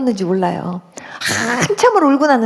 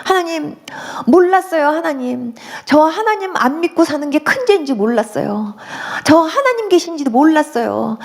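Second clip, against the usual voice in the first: re-enacted weeping confession, mildly tearful; retold tearful plea; 3 semitones higher than usual. New believer confesses to God, mildly tearful retold plea. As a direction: beg forgiveness with a touch of tears. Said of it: "제가 막 울기 시작하는데".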